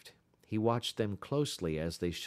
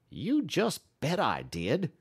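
higher, slow fervent insistence; fervent reply; 7 semitones higher, 4 dB louder than usual. A narrator's reading. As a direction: swear it with conviction. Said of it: "was the fervent reply".

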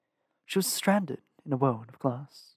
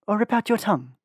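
threat; 7 semitones higher, 5 dB louder than usual. A narrator's reading. Selena threatens Varen.

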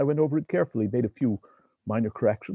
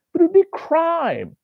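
high, louder alarmed cry; horrified protest; 5 dB louder than usual. A narrator's reading. Writer protesting the crime, high alarmed cry.

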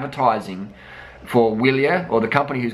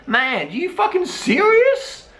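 indignant rant; 10 semitones higher than usual. Real, not acted.

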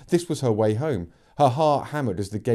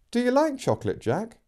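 put-on coaxing girl voice; 12 semitones higher than usual. The speaker coaxing the horse.

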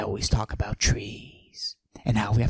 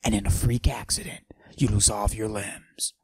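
macho voice pushed down, held the whole bit; forced deep voice. Acted. Mister Steal Your Girl hiding his estrogen with a forced deep voice. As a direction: fake a deep tough-guy voice. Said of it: "I deepen my voice like this".

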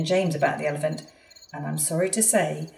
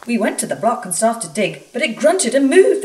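frightened workmen; 5 semitones higher, 7 dB louder than usual. Acted. Frightened workmen report the monster.

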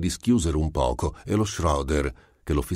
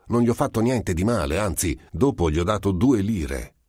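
higher, brisk self-justification; defensive rush, pitched up; suspicious, defensive; 6 semitones higher, 3 dB louder than usual. A narrator's reading. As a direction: protest your innocence warily. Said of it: "ribatté lo Schroeder insospettito".

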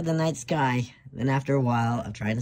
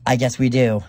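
defiant; 8 dB louder than usual. Acted. Drawing swords for a fight.

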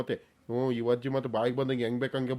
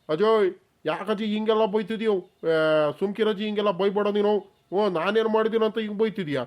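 higher, whiny put-on innocence; fake innocent pleading; 5 semitones higher than usual. Young man pleads innocence to scolding grandma, high whiny put-on. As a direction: play the wronged innocent.

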